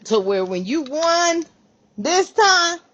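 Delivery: rising high and loud on this time; excited emphasis. Real, not acted. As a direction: lift it up, almost crowing. Emphatic build to a point.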